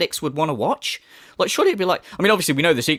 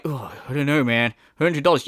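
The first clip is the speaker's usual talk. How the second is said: mock blasé; 3 semitones lower than usual. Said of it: "look how blasé he is".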